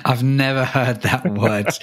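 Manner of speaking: talking through a laugh; amused, laughing while speaking. Real, not acted. Amused reaction to French pronunciation.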